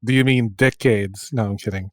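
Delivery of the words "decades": "decades" deliberately mispronounced for a joke; punning pronunciation. Pretend. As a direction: say "decades" as a pun with an Australian-sounding vowel. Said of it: "it sounds Australian".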